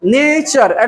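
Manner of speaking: नेचर in two drawn-out beats, ne-chur; two syllables. Shown as a demonstration. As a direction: lengthen the first sound of नेचर, then chur. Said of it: "इस तरह के टू syllabic word".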